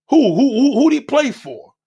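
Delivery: loud, high, disbelieving who who who; loud mocking disbelief; incredulous outburst. Real, not acted. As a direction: demand it in disbelief. Incredulous challenge to commenter.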